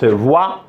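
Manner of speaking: "voix" said as vwa; pronounced "wa". Shown as a demonstration. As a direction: say "voix" with a clear w-a glide, vwa. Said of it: "on la prononce". (« voix » prononcé voua)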